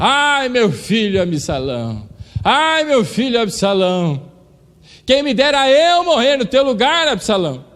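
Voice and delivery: very high, bitter, weeping wailing cry. Retelling a Bible story, the speaker voices a king told his son died: retelling a bitter wailing cry. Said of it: "ele chora amargamente e começa a gritar".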